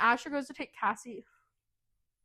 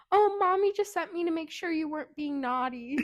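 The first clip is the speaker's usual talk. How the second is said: put-on little girl's voice; 6 semitones higher than usual. Voicing little girl in story.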